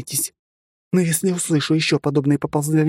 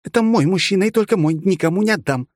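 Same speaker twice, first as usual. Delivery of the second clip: high, fierce jealous claim; possessive anger; 12 semitones higher, 4 dB louder than usual. Acted. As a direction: stake your claim, furious. Jealous girlfriend claims him.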